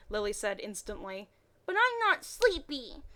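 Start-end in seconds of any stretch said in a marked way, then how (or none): 1.6-3.0 put-on high, slow, half-hearted little boy whine; child's whine. A narrator's reading. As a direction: whine like a sleepy little kid who won't admit it. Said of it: "Harry half-heartedly whined".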